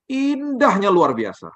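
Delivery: high, slow and amazed; describing the view to the congregation in high slow awe; awestruck. Retold or imitated. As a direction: stretch it out in wonder.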